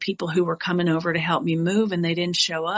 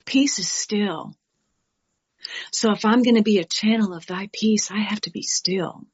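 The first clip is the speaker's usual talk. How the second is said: hushed, calm whisper about stillness. Real, not acted. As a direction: let it fall to a still whisper. Stillness spoken about softly.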